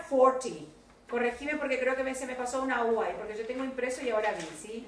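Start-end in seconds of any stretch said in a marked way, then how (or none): 0.1-0.7 "forty" set apart with a falling tune; model "forty" pronunciation. Shown as a demonstration. Teacher corrects Victoria's number, clear "forty". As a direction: give "forty" as the corrected word. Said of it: "ojo, Victoria".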